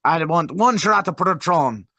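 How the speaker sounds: playful mock Hispanic accent; joking Hispanic accent. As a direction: put on a joke Hispanic accent to order. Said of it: "they were doing it as a joke".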